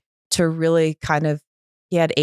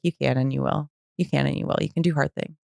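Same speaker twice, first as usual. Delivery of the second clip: low-key, softer retold encouragement; steady her gently, voice dropped; quiet reassurance; 3 semitones lower, 5 dB quieter, faster than usual. Sponsor reassuring a panicking friend by phone, calm firmness.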